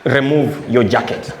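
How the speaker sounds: low, slow robber command; low slow thief. Retold or imitated.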